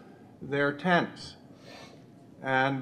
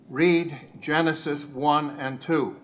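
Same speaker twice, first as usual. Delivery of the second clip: put-on rough German accent; slower than usual. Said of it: "said in the very rough German accent".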